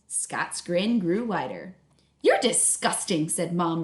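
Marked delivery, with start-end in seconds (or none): 2.2-3.3 resigned. Acted. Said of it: "resignation in her voice".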